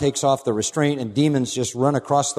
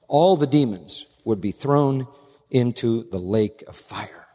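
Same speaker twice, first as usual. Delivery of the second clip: ordinary delivery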